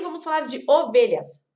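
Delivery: normal talking voice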